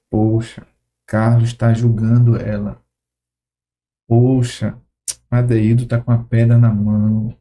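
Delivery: a lightly voiced saddened Jesus, slow and low; grieved Jesus. Jesus silently grieving over the accusers, low and sorrowful.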